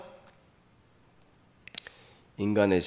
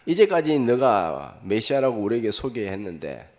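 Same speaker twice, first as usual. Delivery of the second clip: crowd shouting; 2 semitones higher, 9 dB louder than usual. Retold or imitated. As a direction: hurl the taunt at him. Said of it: "군중들도 소리칩니다".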